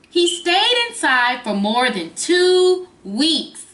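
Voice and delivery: slow storybook reading; reading to a toddler. Acted. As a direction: read it to little kids. Reads the book's ending.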